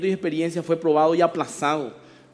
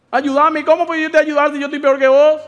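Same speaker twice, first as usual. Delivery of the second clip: desperate plea; 6 semitones higher, 7 dB louder than usual. Acted. Drowning people plead with each other.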